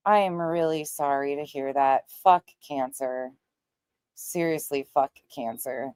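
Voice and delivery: low, subdued condolence; sincere sympathy. Real, not acted. Streamer consoling a viewer about an uncle's cancer, subdued sympathy. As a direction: say it low and heartfelt.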